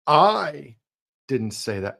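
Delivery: I pushed up and out; I marked, the rest let go; stress on I. Shown as a demonstration. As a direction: lean on the first word I. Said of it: "emphasize a different word".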